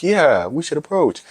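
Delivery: slow, high, dopey agreement; mock dopey guy. Mocking guys who fall for the videos, slow dopey voice. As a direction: play a gullible guy nodding along.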